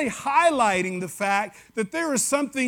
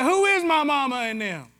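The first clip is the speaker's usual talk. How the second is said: mild mock yell; 4 semitones higher than usual. Jesus answers the door call, lightly raised Southern call. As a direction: call back across the house in West Tennessee slang. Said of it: "Jesus yells back".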